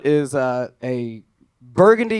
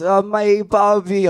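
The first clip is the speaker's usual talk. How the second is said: high, slow, drawn-out wail; mock crying child; 4 semitones higher, slower than usual. Lost boy to store worker, mock crying. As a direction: imitate a little boy whining through tears. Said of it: "he just starts crying and he says".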